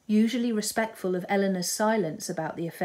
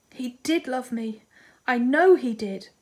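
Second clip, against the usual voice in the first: slow then louder, high insistent cry; 4 semitones higher, 5 dB louder than usual. A narrator's reading. Marianne insists to her sister, crying high. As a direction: insist through tears. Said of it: "cried Marianne".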